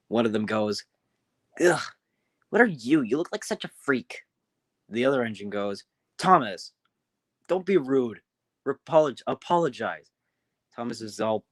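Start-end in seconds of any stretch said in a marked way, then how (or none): 1.6-4.2 mock disgust, rising on the question. Rude engine greeting the strange newcomer, disgusted. 6.2-10.1 scolding. Acted. Older engine correcting rude Thomas, scolding.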